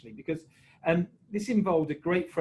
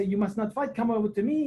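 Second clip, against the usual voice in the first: a higher, mock-stern referee; lightly voiced Didier; 6 semitones higher than usual. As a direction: act out a referee telling off players. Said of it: "I say".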